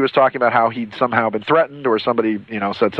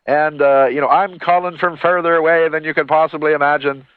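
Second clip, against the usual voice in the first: hammed-up mock Irish accent, pitched higher; bad Irish accent; 4 semitones higher than usual. Retelling a mystery caller to the listeners, in a mock Irish accent. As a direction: put on a bad Irish lilt, a bit higher. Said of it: "with a very bad Irish accent".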